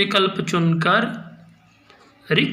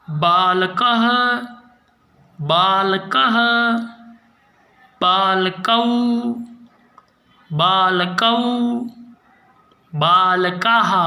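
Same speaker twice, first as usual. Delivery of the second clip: slow, clear drill chant of each form; pronunciation practice, spaced word by word; recitation drill. Shown as a demonstration. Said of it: "मेरे साथ आप सभी अभ्यास करें".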